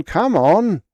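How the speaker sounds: loud high bark, falling. Acted. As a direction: bark it, then drop. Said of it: "he barked".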